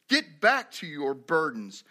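slow, firm command with weight on "Get back"; emphatic reading. Shown as a demonstration. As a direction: hit "back" and draw out "burdens". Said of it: "I didn't emphasize that enough".

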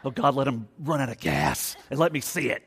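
far-off, put-on prayer voice, slyly vengeful; spiteful mock prayer. Pastor mocking a churchgoer praying about a rude driver, sly. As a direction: pray sweetly for his bad luck.

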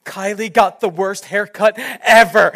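imitating an upset wife, drawn out. Wife phoning about the dog's haircut, mock upset. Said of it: "I call her up, and she goes".

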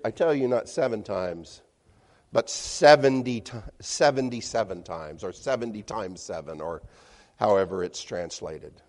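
ordinary talk

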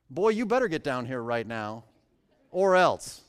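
put-on a mildly menacing "Boy, you better get down here"; threatening command. Shown as a demonstration. Preacher showing how the second captain might bark his order, mildly threatening. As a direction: lean on it like a bully giving orders. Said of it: "consider reading it this way".

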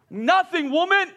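mock exasperated. Snapping back at wife.

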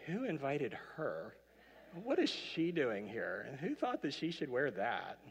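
offended elk, slowed down and sniffy; indignant elk. Retold or imitated. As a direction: drawl it out like an offended dinner guest. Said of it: "You know that elk is saying".

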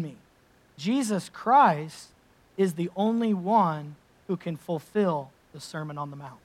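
quoting Oswald Chambers. Acted. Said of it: "Oswald Chambers says it this way".

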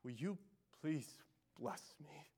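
quiet plea. Acted. A worshipper echoing Jacob's cry, quietly pleading. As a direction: beg God quietly and humbly. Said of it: "echo Jacob's cry".

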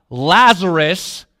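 loud, drawn-out call of the name; retold shout. Jesus calling dead Lazarus out of the tomb, loud call. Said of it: "He shouts".

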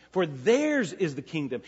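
"theirs" said with firm emphasis; stress on theirs. Shown as a demonstration. Preacher reading the blessing to his congregation, stress on "theirs". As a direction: lean on the word "theirs". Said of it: "there's an emphatic theirs".

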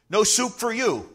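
a hint of the stern Soup Nazi; lightly voiced Soup Nazi from Seinfeld; Soup Nazi line. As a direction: bark the refusal lightly, laughing. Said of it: "like a Seinfeld episode".

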